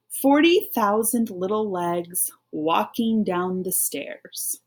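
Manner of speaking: slow, even read-along pace. Shown as a demonstration. Teacher reading along with pupils, slow and even. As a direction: read slowly so they can follow. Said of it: "So let's read those first two lines together".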